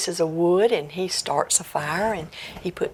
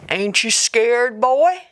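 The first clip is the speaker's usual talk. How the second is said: louder, rising ghostly taunt; 4 semitones higher, 5 dB louder, slower than usual. Acted. Ghost taunts Jack by the fire, loud and rising. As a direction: taunt the boy from the dark. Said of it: "the voice said".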